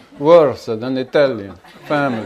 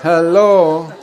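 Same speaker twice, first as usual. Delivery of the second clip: louder, higher laughing call; laughing hello; 5 semitones higher, 8 dB louder than usual. Real, not acted. Teacher again laughing at the listeners, incredulous. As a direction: repeat the disbelief, laughing.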